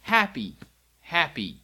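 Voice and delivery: cheerful sign word; happy. Shown as a demonstration. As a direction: lift it like good news. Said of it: "same motion as feel".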